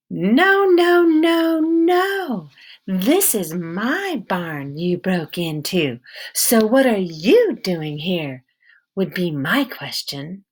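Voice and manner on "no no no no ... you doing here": slow, firm voice of a tough backwoods woman; a suspicious woman with a hint of an accent, guarding her barn; stern wary woman. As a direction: hold your ground and interrogate him. Woman character confronts Peter.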